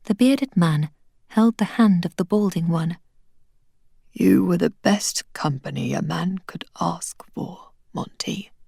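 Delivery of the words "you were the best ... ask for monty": faint dying whisper; dying man whispering farewell to his friend. Acted. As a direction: barely breathe the words out. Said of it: "his voice falling to little more than a whisper".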